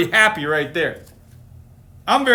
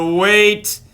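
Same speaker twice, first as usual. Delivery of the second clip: mild call; 3 semitones higher, 3 dB louder than usual. Acted. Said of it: "cried Sheep".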